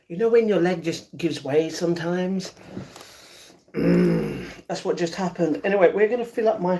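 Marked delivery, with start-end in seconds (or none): none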